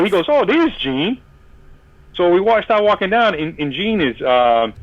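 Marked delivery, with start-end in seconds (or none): 0.3-1.2 high retold exclamation; excited spotting. Keith telling fan that Gene is there, excited. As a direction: point someone out with a high lift.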